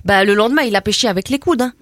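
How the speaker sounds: put-on brash teen girl from the estate, chatty and cocky; cheeky suburban girl. Comedy guest chatting to the radio host as a cocky suburban girl. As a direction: play a gossipy banlieue girl full of slang. Same character continues.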